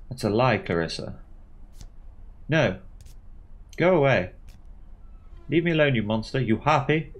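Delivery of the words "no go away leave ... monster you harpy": tearful rage. Acted. Sobbing Clarissa ordering the visitor to leave. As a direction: shout her away through tears. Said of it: "She collapses into floods of tears again".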